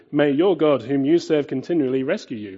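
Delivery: desperate plea. Retold or imitated. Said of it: "As he says desperately".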